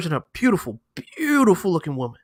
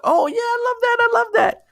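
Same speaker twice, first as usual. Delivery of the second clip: put-on gushing English girl. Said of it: "They're like".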